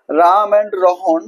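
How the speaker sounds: slow, careful dictation; slow dictation to the class. Shown as a demonstration. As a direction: dictate it slowly for students to write. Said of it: "dictating example sentence slowly".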